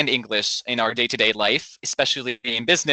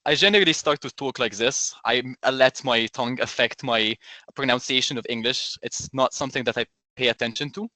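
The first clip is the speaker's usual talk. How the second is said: Egyptian accent. Shown as a demonstration. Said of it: "by switching my accent right now".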